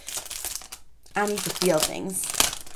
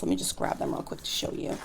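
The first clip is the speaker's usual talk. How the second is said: whisper; 6 dB quieter, faster than usual. Real, not acted. Quick aside while fetching stickers.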